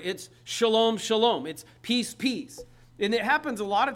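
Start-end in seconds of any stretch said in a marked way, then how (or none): 0.0-1.5 shalom, shalom said twice in a row; doubled Hebrew word. Shown as a demonstration. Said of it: "it's just a double word". 1.5-2.6 peace rising, then peace falling; doubled word. Shown as a demonstration. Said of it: "it's just a double word".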